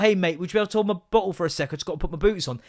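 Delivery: "would you be able to hold my bottle" quick but distinct; said properly. Shown as a demonstration. Dad models a proper request for son, clear. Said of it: "If you just said that properly".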